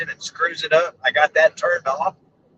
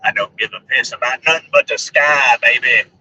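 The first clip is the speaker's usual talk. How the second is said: a hint of the Alabama superfan, dropping lower; lightly voiced Bama fan; 4 semitones lower than usual. Vlogger reworking the fan's catchphrase for sky, Bama fan voice. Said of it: "I sound like him".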